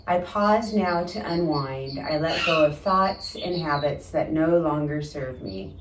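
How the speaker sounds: soft, unhurried affirmation read aloud. Acted. Yoga teacher reading a relaxation quote to students, soft affirmation reading. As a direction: read the quote softly, as calming self-talk.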